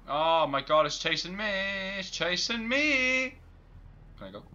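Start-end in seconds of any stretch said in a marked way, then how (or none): 0.1-1.5 loud, panicked cry; scared horror game streamer. Real, not acted. Monster chasing the player. 2.0-3.3 higher, louder, slow panicked yell; scared horror game streamer. Real, not acted. Monster chasing the player.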